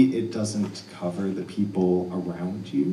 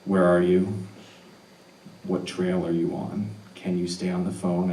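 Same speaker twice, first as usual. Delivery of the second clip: calm; 2 semitones lower, 3 dB quieter than usual. Retold or imitated. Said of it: "it's very calm".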